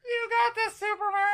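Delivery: high ghostly memory echo; dreamy distant voice. Pretend. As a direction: float it like a faint voice in his head. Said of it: "my dream voice".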